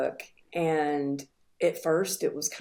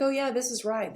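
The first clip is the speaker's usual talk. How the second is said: higher-pitched retold "oh yeah"; dismissive assurance; 8 semitones higher, faster than usual. Stepdad justifying himself to the child, retold dismissively. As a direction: brush off the objection in a raised voice. Retold abuser brushing off her objection.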